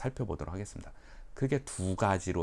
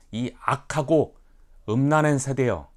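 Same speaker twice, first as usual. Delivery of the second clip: Jesus rebuking; 3 semitones higher, 7 dB louder than usual. Acted. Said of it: "이렇게 표현했습니다".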